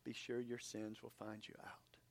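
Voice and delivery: hushed, breathy whisper of a mother's warning. Retold or imitated. Pastor quoting his mom's warning, whispered. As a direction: whisper it like an old family saying.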